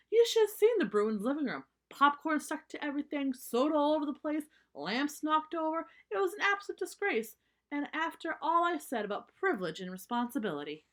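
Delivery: high, loud indignant mama bear ranting; outraged mother. Acted. Mama rants about the mess.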